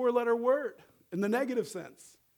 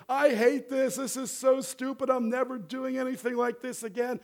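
higher voice, lightly imitating a tearful boy; mock upset child; 6 semitones higher than usual. Father retells his son losing a film role, lightly mimicked upset. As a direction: mildly protest like a disappointed six-year-old. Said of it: "so he's crying".

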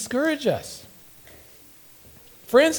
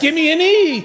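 gloomy cheer call; 11 semitones higher, 5 dB louder than usual. Pretend. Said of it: "pessimistic cheerleaders".

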